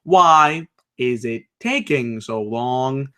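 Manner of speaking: slow, monotone robot delivery; slow, robotic mockery of a stiff promo. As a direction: drone it out slowly like a robot. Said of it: "in the most robotic voice possible".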